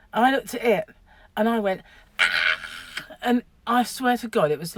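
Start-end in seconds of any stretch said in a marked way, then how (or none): 2.2-2.6 short loud startled "ah!"; quick mock scream of fright; retold scream. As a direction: yelp as if just spotting a mouse. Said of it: "screaming my tits off".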